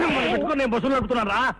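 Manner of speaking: quick complaint. Acted. Boss complaining about running buses with them, hurried. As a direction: get the whole complaint out in a rush.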